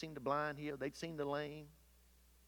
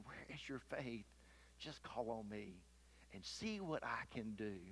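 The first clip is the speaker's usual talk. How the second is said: hushed and much softer, gently asking; soft whisper; 3 semitones lower, 10 dB quieter than usual. Pretend. Jesus speaking gently to worried believers, softly whispered. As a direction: murmur it softly, like a voice close to the ear. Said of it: "I wonder, is he whispering".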